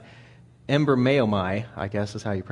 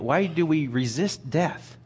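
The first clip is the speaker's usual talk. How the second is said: normal talking voice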